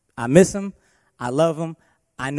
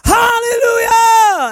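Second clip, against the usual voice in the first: high, loud, drawn-out shout of praise; sudden hallelujah shout; 12 dB louder, much slower than usual. Retold or imitated. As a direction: belt out a joyful hallelujah. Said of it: "Mister Frankie goes".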